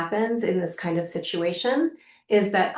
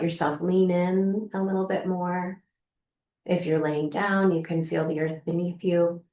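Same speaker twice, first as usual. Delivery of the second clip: calm, gently softening guidance with long pauses; unhurried, lightly hushed meditation voice; guided meditation. Acted. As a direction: guide the listener gently into the body, leaving room to breathe. Leads a guided practice.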